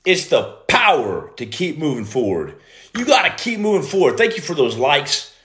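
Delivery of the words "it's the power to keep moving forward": lower, slower, spelled out as if writing it down; dictating slowly. Shown as a demonstration. Noting down the new mission statement, slow dictation. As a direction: read it back word by word while noting it. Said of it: "I'm writing that down".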